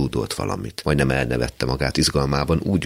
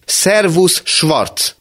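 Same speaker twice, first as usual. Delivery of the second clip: much higher and louder, almost a shout; even louder greeting; 14 semitones higher, 5 dB louder, much slower than usual. Acted. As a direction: shout the greeting while banging the table. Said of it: "mondta még hangosabban". (még hangosabb, kiabáló köszönés)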